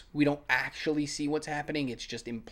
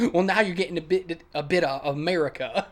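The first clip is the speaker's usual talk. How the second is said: quoting her; 3 semitones higher, 5 dB louder than usual. Retold or imitated. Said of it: "is when she says".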